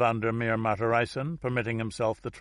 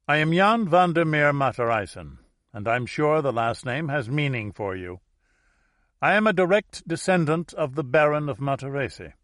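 formal Dutch host; 3 semitones higher, 4 dB louder than usual. Acted.

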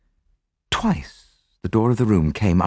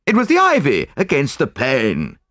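higher, insistent exclamation; urgent cry; 7 semitones higher, 3 dB louder than usual. A narrator's reading. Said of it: "I cried".

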